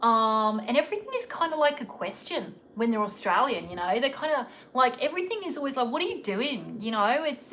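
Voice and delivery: loose Australian accent with questioning lilt; Aussie accent. Shown as a demonstration. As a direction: put on a rough Aussie accent, everything like a question. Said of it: "if I put in an Aussie accent".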